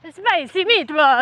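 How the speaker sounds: jokey stage-Italian accent, laughing; playful mock Italian accent with a laugh; Italian accent attempt. Shown as a demonstration. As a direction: have a half-hearted go at an Italian accent. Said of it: "well, give us your best".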